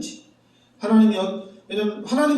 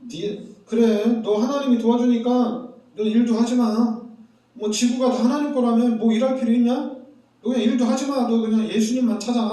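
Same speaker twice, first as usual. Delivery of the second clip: higher, mocking taunt; sarcastic mockery; 5 semitones higher, 3 dB louder than usual. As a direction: sneer at believers, imitating the world. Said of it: "막 비꼬죠". (세상이 신자를 비꼬듯 조롱하는 말투)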